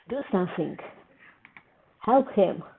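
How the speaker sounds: loud urgent plea to the screen; desperate plea. Real, not acted. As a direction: beg the screen for help, loud. Pleads with the screen.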